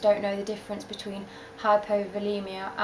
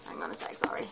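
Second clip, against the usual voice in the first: whispering; 8 dB quieter, faster than usual. Real, not acted. Quick aside while fixing recording.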